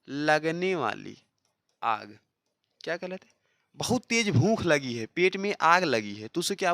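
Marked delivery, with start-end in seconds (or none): 0.1-2.2 slow, deliberate teacher phrasing; slow, stressed teacher delivery; slowed emphasis. Shown as a demonstration. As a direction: draw out लगने वाली आग word by word. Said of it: "slow teaching stress".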